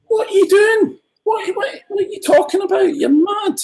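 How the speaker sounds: high, disbelieving mock cry; incredulous outburst. Imitating people who should object, high and incredulous. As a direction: squeal it like you can't believe what you're hearing. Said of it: "not enough people are going".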